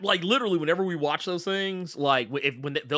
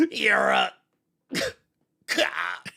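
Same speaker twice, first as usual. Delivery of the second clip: imitated gasp on the last word; begging villain, winded; 3 semitones higher, much slower than usual. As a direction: choke out the final word. End of imitated begging villain scene.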